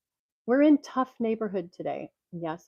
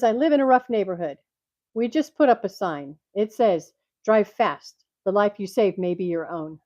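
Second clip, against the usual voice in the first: Rodney Dangerfield; 6 dB louder than usual. Retold or imitated. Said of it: "He says".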